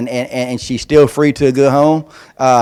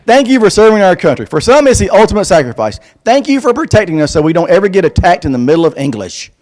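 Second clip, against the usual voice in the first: put-on kid's earnest voice; 4 semitones higher, 3 dB louder than usual. Reading child's letter.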